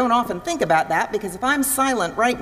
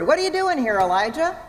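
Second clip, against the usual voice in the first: "doing" higher and punched in "What are you doing here"; puzzled question leaning on "doing"; stress on doing; 5 semitones higher, faster than usual. Shown as a demonstration. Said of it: "that's often the way it's inflected".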